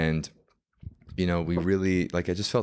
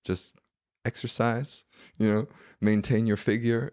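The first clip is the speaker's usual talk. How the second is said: put-on airy British accent, swooping in pitch; preening British socialite voice; vain British woman; 4 semitones higher than usual. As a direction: imitate a vain British lady giving advice. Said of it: "this was, like, the vain one".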